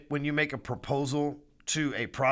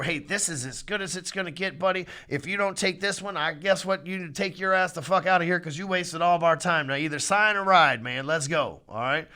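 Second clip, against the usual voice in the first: rude closer. Pretend. Salesman pushing a hesitant buyer, rude. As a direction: push the buyer to sign or leave. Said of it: "you don't have to be rude like that".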